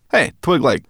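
high, loud chirpy brownie; high brownie voice, talking with her mouth full. Acted. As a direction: pitch her up into a bright little creature. Sorrel voiced.

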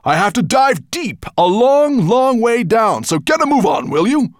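high, loud and pushy; impatient dragon. Acted. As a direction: hurry him along in the dragon voice. Dragon urging dwarf.

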